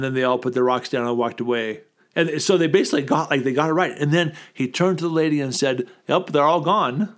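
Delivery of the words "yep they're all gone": slow, offhand "Yep, they're all gone"; lightly imitated, slowed and casual; casual imitation. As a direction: toss it off like it's nothing. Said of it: "they just said it kinda like that".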